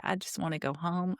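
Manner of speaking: hushed, sad little voice; a soft imitation of a child's sad plea; quiet retelling. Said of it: "in the quietest voice".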